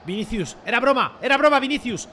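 starts pleading, ends in a shout; rising to a yell at the player; building shout. Real, not acted. Pleading with player after joke. (de súplica a grito)

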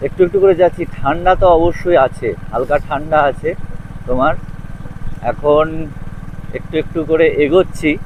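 muffled voice inside a helmet. Real, not acted. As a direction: talk through a closed helmet visor. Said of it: "আর helmet পরে আছি".

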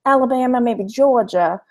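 genteel Alabama or Georgia accent; Southern lady accent. Shown as a demonstration. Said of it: "I could go a Southern lady".

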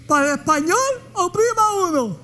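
robotic automated menu announcer; phone menu voice. Pretend. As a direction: read it like a phone recording. Imitating phone menu recording.

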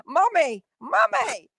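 high-pitched mock cry for mummy; mock scream. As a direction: imitate a desperate wail, pitch leaping up without extra volume. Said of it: "you'll be screaming".

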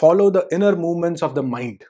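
measured, slow quotation; deliberate recitation; slow quote reading. Shown as a demonstration. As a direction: read the author's line slowly. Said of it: "next author बोलते हैं".

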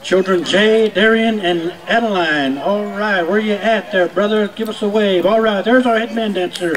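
booming arena announcer calling names; powwow emcee. Acted. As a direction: announce each dancer to the crowd.

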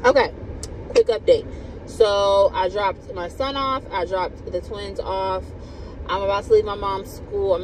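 breathless after rushing around; talking while catching breath. Real, not acted. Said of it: "Let me catch my breath".

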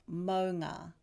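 "maunga" with the ng from the back of the tongue; ng sound. Shown as a demonstration. Teacher shows the ng in "maunga". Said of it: "the back of the tongue touches the roof of the mouth".

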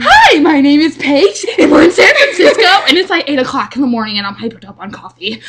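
talk show host. Pretend. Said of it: "We could be a talk show".

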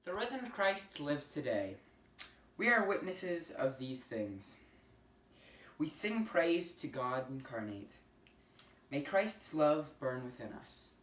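measured liturgical prayer voice; prayer leading. Acted. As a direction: pray it out slowly to the congregation. Leads a short responsive prayer.

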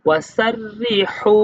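ওয়াসাররিহু with the final হু drawn out; alif stretch. Shown as a demonstration. Teacher models the one-alif stretch on ওয়াসাররিহু. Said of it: "এক আলিফ টেনে পড়তে হবে".

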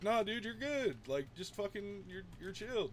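high-pitched reassuring quote; imitating an easygoing 'you're good'; retold reassurance. Retells himself reassuring a worried friend.

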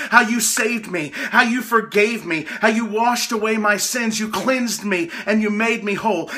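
earnest prayer, voiced as an example to the congregation. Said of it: "We pray for revival".

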